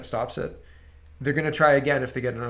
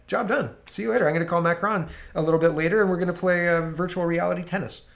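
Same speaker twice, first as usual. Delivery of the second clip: mock carefree prime minister; 3 semitones higher than usual. Mocking Justin Trudeau's attitude.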